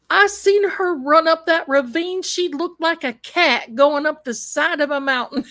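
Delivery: laughing through a high retold quote; chuckling while quoting the officer. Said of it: "he says".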